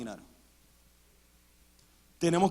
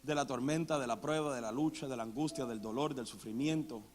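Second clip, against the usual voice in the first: quiet pastoral appeal; 5 semitones lower, 9 dB quieter than usual. Real, not acted. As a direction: lean in and speak tenderly to the congregation. Quiet intimate preaching. (súplica pastoral, suave y lenta)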